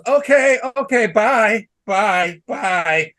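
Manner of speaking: a hint of a flustered waiter; mock meek waiter. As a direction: imitate the waiter scurrying away, lightly. Waiter backs off after being yelled at.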